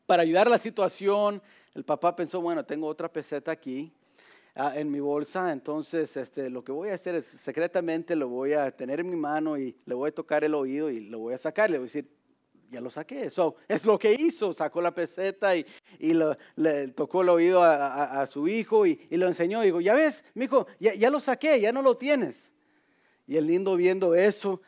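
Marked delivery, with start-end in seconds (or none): 2.4-13.3 low, soft thinking aloud; acted private thought, kept low and soft; secret inner planning. Father privately planning a secret trick. 19.8-22.5 higher-pitched father's ta-da; lightly acted parental triumph; mock triumphant reassurance. Father showing son the coin.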